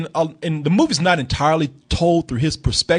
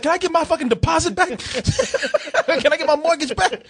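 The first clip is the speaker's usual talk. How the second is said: laughing mock outrage; 10 semitones higher than usual.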